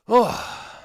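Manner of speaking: sudden high loud oh of surprise; startled oh. Real, not acted. Streamer caught off guard going live, yelps a startled oh.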